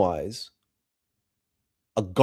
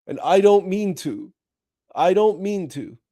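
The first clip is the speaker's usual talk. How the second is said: Sam's reply; 5 semitones higher than usual. Retold or imitated. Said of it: "Gandalf said to him".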